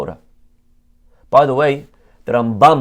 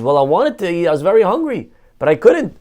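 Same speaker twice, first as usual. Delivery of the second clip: higher-pitched pleading self-defence; defensive excuse; 4 semitones higher, 3 dB louder, faster than usual. Acted. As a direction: justify yourself to the rabbi. Man defends himself to rabbi.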